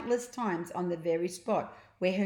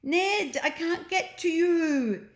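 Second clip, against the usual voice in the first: high, louder shout; desperate shout; 11 semitones higher, 6 dB louder, slower than usual. A narrator's reading. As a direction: cry out across the sky. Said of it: "the boy screamed".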